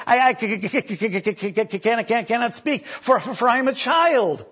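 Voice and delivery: c-c-can't get the words out; stammering excuse. Acted. Jeremiah stammering his excuse to God. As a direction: stutter on each word, timid and halting.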